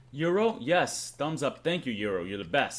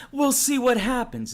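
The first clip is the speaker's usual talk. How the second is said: high, slow, louder catchphrase imitation; Anthony Palumbo; 9 semitones higher, 6 dB louder, slower than usual. Streamer quoting someone's catchphrase to viewers, hammed-up impression. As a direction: draw the catchphrase out in a raised mimicking voice. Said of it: "as Anthony Palumbo would say".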